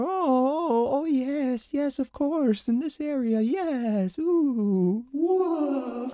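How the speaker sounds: high fluttery Smeagol voice; light, high, darting Smeagol. Shown as a demonstration. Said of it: "It's more".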